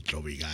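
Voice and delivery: "Tropical" dropped low, ending on a held L; stressed final L. Shown as a demonstration. Co-host demonstrating "Tropical" with a long L. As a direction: hold the L at the end of "Tropical", low. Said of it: "With an L".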